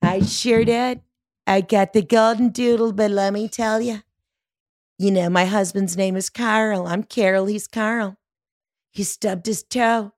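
lightly voiced complaining neighbor, pitched a bit high; hint of a gloomy oversharing neighbor; Debbie Downer neighbor. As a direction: play the neighbor dragging out her woes. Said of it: "you know that n-, one neighbor".

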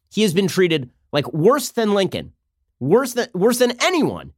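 hammed-up outrage, pitch climbing; mock indignation. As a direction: protest with slow, overblown emphasis. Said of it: "have the Republicans being like".

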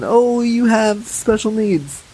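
mock patronizing coo; infantilizing. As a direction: draw it out as if to a child. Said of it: "it just is so infantilizing".

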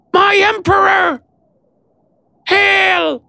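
squeaky creature shout. A narrator's reading. Rat creature Maud hails him.

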